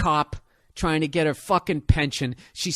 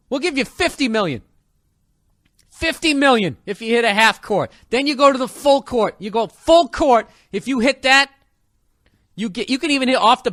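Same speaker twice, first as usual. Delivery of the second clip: mock announcer shout; 5 semitones higher, 4 dB louder than usual. Game show hype.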